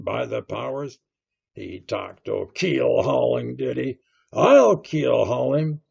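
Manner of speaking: agitated seaman's exclamations; jerked-out phrases. A narrator's reading. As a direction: jerk out each phrase, building to a loud threat. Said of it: "jerking out these phrases".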